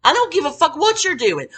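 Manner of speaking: heated, loud telling-off of a coworker; angry loud scolding; retold angry rant.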